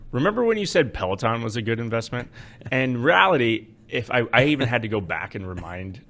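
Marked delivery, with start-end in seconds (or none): 0.1-2.3 needling listener. Retold or imitated. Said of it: "It's always".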